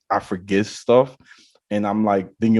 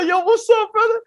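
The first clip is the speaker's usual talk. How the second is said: very high-pitched mock greeting; excited greeting back. Clubgoer greets his security guard friend, excited high-pitched greeting. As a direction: squeal a hello back to your buddy.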